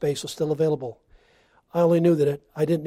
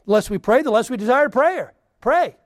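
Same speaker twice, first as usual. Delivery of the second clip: loud, high preaching climax; 4 semitones higher, 4 dB louder than usual. Acted. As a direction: preach it out with fire. Preaching at full force.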